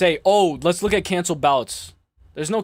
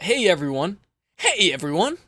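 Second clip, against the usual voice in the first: mocking cheery greeting; 2 semitones higher than usual. Streamer mocking the fighter's happy video greeting. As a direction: lightly mimic a chirpy fighter greeting fans. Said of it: "Look at how happy he is".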